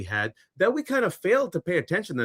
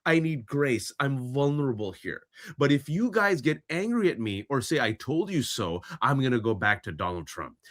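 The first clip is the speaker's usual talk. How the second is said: upset mom. Retold or imitated. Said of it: "she gets really upset".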